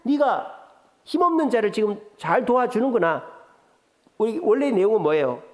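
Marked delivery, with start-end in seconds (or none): 0.0-3.3 반어적으로 비꼬듯; ironic. Shown as a demonstration. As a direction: praise that means the opposite, lightly sneering. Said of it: "반어법이죠".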